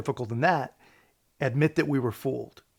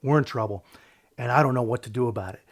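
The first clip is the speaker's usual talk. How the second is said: low, glum mock of his defeated voice; mocking the guy; 4 semitones lower, faster than usual. Commentator mocks the pollster's gloomy voice, low and glum. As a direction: lightly imitate a hopeless pundit. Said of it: "listen to the guy's voice".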